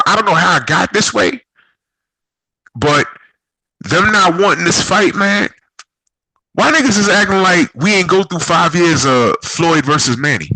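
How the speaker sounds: ordinary delivery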